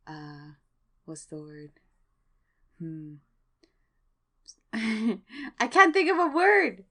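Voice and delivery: unvoiced, laughing whisper; flustered whisper while searching for a word; embarrassed whisper. Real, not acted. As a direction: whisper it bashfully through a giggle.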